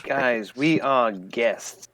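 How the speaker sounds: slow, measured, pointed hint; drawn-out discreet warning. Acted. Player warning companions not to insult their hosts, slow and pointed. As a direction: stretch it out, hinting heavily.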